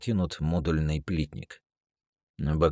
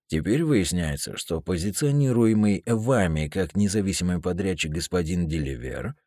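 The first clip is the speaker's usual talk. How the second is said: formal, louder official warning; stern officer; 3 semitones higher, 5 dB louder than usual. Acted. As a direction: read him the charges coolly. Smith formally charges Shane.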